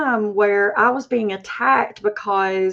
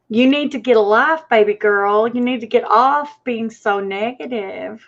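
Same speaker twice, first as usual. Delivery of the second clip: put-on sassy Southern accent. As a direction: talk down to her like a sassy Southern aunt, in a mild Southern accent. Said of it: "Why does that always sound better with a Southern accent".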